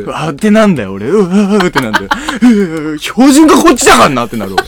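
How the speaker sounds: high, loud laughing outburst; hammed-up comeback to an insult; mock indignation. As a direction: pitch climbs in playful outrage. Exaggerated comeback to the acted insult.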